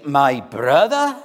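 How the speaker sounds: slow, swelling preacher's plea; earnest entreaty. Acted. Preacher reading Spurgeon's appeal to a brother, earnestly pleading. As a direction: implore with rising force, drawing out key words. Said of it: "use more earnest language than that".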